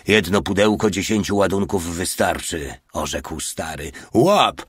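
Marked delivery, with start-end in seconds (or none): 4.1-4.6 quick, higher-pitched call; short mild shout. A narrator's reading. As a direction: toss the word out to a comrade. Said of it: "Zawołał Mały".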